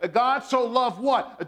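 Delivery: slow, stressed question inviting the answer; call-and-response question. Acted. Pastor prompting the congregation to answer, slow and stressed. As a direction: pull the answer out of the room.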